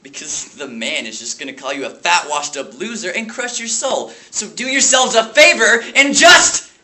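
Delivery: bitter rant rising to a shout; Dewey Finn. Acted. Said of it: "lash out his rage at the small private school".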